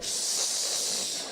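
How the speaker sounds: a soft unvoiced shh; shushing. Teasing grandma at the doctor, soft shush. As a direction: hush her with a breathy shush. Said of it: "I'll be like".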